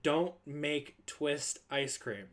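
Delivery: slow, weighty warning with each word spaced out; slow stern order. Retold or imitated. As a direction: lay down the rule slowly. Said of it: "Just don't do it".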